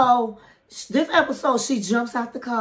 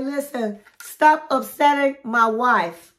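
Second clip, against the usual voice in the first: retold stern husband, firm and measured; pissed; 3 semitones higher, 3 dB louder than usual. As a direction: lay down a slow, mock-angry warning. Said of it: "he was looking pissed".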